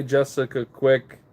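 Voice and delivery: normal talking voice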